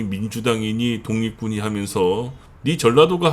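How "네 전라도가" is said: mock Gyeongsang accusation. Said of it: "하면서 비난할 것이".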